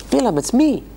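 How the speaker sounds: the loyal donkey begging its master, hammed up; mock donkey voice. Donkey pleads with Bilam.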